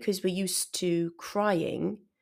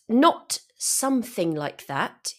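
interrupting; 5 semitones higher, 5 dB louder than usual. Shown as a demonstration. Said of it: "he interrupted".

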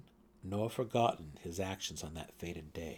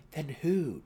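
higher, louder urgent ask; urgent question; 7 semitones higher, 6 dB louder than usual. A narrator's reading. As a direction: press the question hard. Drizzt asks, urgent.

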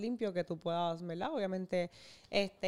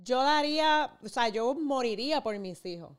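quoted parent's vow; 4 semitones higher, 4 dB louder than usual. Retold or imitated. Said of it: "que muchos padres dicen".

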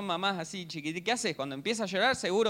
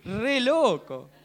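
very slow, laughing through the words; 4 semitones higher, 4 dB louder, much slower than usual. Real, not acted. Preacher amused by flying eraser, laughing.

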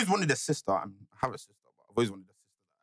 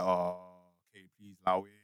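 mock timid backing down; 12 semitones lower, 7 dB quieter than usual. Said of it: "I'm kinda like".

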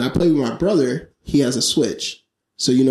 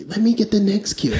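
high-pitched mock complaint; mildly mad brother, pitched way up; imitating mad brother; 9 semitones higher than usual. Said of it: "he's getting mad".

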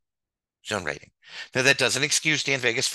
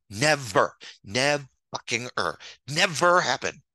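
angry insistence. Real, not acted. Angry rant about zone rating.

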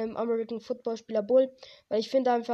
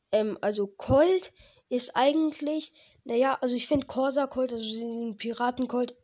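stuffy nose. Real, not acted. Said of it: "sorry, ich bin ein bisschen erkältet".

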